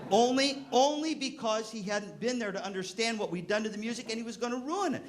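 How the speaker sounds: high, laughing excuse; sheepish laughing self-defense. Real, not acted. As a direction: laugh through the confession. Laughing excuse for hiding mouthpiece.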